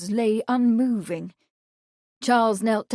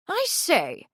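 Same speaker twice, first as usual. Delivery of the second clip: calling out; 9 semitones higher than usual. A narrator's reading. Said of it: "he called to one of several servants".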